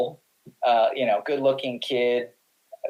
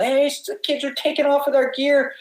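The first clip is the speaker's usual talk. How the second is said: retold yell; 12 semitones higher than usual. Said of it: "one of our friends yelled".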